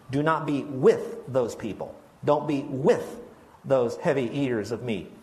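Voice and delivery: slow down and lean on "with" each time; stress on with. Shown as a demonstration. Pastor pointing the congregation to "with", stressed. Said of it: "I want you to underline the word "with".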